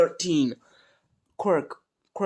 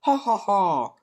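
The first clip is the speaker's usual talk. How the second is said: hearty laugh; 6 semitones higher, slower than usual. Acted. All Might's hearty laugh.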